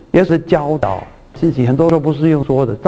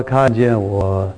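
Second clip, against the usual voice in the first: quoting Jesus slowly; 4 semitones lower, much slower than usual. Retold or imitated. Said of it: "可是耶稣说，".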